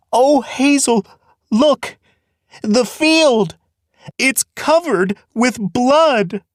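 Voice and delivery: very high, slow, horrified voice; seeing blood that isn't there, pitched high and slow; horrified prophecy, pitched high and drawn out; terrified vision. Acted.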